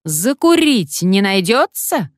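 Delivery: slow, lightly hoarse parrot; mock wheeze. A narrator's reading. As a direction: cadge a smoke like a sly old sailor. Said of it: "прохрипел".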